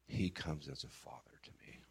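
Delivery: hushed tender whisper. Real, not acted. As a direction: breathe it out softly in awe. Whispered, unvoiced tender line.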